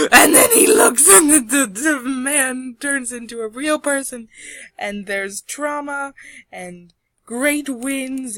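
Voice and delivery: loud, high, frantic storytelling easing off gradually; breathless climax. A narrator's reading. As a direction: burst out after a gasp, then ease slightly. Climax, drawing comes alive.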